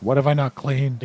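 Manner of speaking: mock frustration rising into a loud outburst; quietly mad. Player voicing their hunt for the last dirty spot, exasperated. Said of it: "quietly mad, being like".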